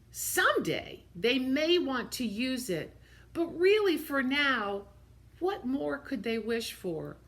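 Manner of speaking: storybook reading, lively and gentle; reading to children. Acted. Teacher reading aloud to her young listeners, animated. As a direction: read it like story time for little ones.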